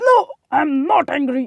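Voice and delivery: harsh, high-pitched, loud, snapped out.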